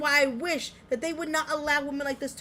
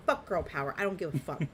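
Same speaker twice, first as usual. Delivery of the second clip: normal talking voice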